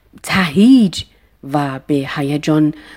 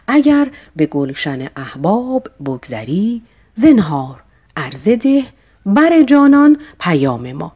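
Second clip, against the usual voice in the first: rising recitation; 3 semitones higher than usual. Shown as a demonstration. Teacher re-reciting verse with a rising finish. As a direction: build and rise toward پیام ما. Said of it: "verse recited again".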